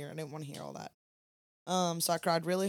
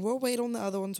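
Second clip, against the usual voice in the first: a lighter, higher take on We'll wait; light high ladies' voice; 5 semitones higher, faster than usual. Retold or imitated. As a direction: quote the ladies a bit higher. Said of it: "they kept saying".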